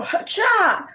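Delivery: high, loud swing shout; battle cry. Acted. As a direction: yell it as you strike. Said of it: "I say that as I'm doing it".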